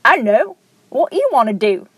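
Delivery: lightly put-on accent of a famous band. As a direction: answer with a mild mock accent of a famous band. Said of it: "like, a band's accent".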